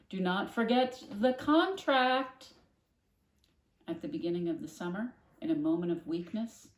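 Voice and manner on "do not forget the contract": loud, slow, high warning; mother shouting. A narrator's reading. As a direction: spell out the order slowly and loud. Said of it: "her mother shouted".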